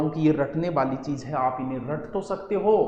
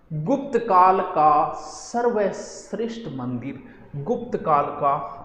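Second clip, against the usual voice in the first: drawn out, word by word; slow dictation; much slower than usual. Real, not acted. Teacher giving students the Gupta era's finest temple, slow dictation. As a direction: stretch each word slowly for note-taking.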